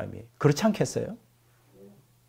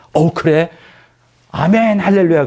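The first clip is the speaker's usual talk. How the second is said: mock delighted wife; 2 semitones higher, 4 dB louder than usual. Preacher mocking Zipporah's cheerful reply, hammed-up gushing.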